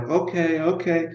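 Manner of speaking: soft, jittery okays from a nervous super; a hint of a nervous wreck. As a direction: mumble it like a man who's been caught. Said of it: "he's a nervous wreck".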